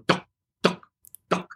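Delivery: short, spaced imitated Asteroids shots; imitated game shots. Actor mimicking an old arcade game, spaced shot noises. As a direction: make little video-game firing blips with the mouth. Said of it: "I had played Asteroids".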